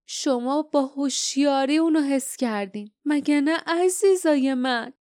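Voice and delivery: lightly voiced villain doting on his monsters; murmuring to himself. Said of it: "زیر لب گفت".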